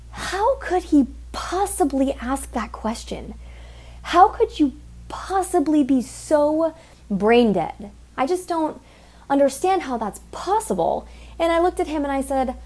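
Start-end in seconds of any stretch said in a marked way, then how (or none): 0.1-11.1 incredulous. Real, not acted. Incredulous rant about customer.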